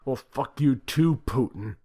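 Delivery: loud, high slow cursing shout; furious curse. A narrator's reading. President cursing Putin before slamming phone, furious shout. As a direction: spit the insult at him.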